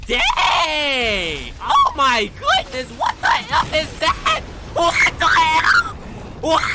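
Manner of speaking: startled yelling at the screen; freaked out, loud and jumpy; panicking gamer. Real, not acted. Jump scare in horror game.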